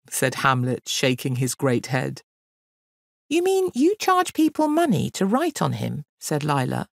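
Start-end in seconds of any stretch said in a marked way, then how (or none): 3.3-6.0 very high, incredulous question; shocked disbelief. Acted. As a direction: question it in scandalised astonishment. Girl reacts to the boy's scheme.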